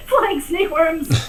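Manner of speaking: slow, amused repeat; laughing echo. Real, not acted. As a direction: savor it through laughter. GM echoes the joke.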